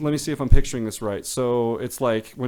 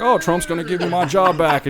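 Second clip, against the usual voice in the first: imitated hopeful voters; 5 semitones higher, 5 dB louder than usual.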